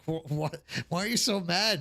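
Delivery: ordinary delivery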